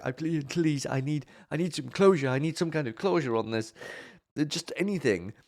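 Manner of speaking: mock pleading. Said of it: "I was like".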